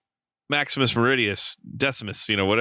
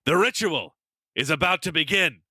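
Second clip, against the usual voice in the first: higher, hammed-up dramatic announcement; Russell Crowe; 7 semitones higher than usual. Quoting Crowe's promo line to laughing friends, mock dramatic. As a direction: deliver it like an overblown trailer tagline. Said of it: "Russell Crowe goes".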